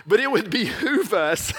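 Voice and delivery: "behoove" said again through a laugh; laughing repeat. Shown as a demonstration. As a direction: chuckle your way through "behoove". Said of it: "Only in preaching we use word behoove".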